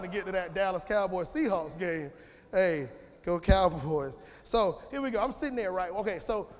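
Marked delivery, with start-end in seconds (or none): 2.5-4.2 cheer. Real, not acted. Cheering for his football team.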